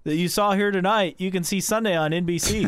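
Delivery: TV promo announcer. Pretend. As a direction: sell it like a Sunday race ad. Mock TV promo for races.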